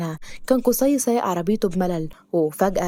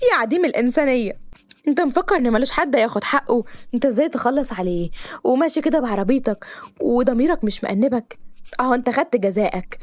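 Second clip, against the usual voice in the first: indignant scolding; 4 semitones higher than usual. Acted. Girl berating the driver for killing the turtle. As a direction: lay into him for the turtle.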